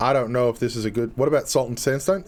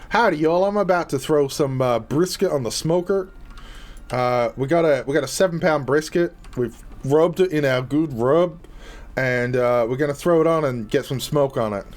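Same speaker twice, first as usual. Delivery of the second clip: louder hammed-up Southern barbecue pitchman; Southern accent; 4 semitones higher, 6 dB louder than usual. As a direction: play a Texan pitmaster bragging about brisket. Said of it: "most of my southern accents".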